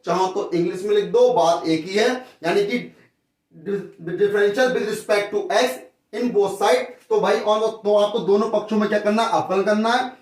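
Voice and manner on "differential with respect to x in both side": each word drawn out for copying; teacher dictating at writing speed; slow dictation. Shown as a demonstration. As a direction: read it slowly like board notes. Teacher dictating English phrase slowly.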